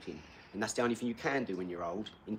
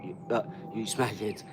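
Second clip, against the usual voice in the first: mock troll. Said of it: "he's calling up".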